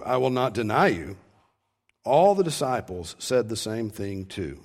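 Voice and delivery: measured, solemn Bible reading; scripture reading. Acted. Pastor reads the Gospel to the congregation, solemn reading. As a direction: read the passage out with weight.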